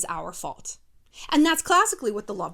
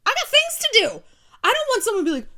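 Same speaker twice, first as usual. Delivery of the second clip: mock exasperation; 11 semitones higher, 7 dB louder than usual. Real, not acted.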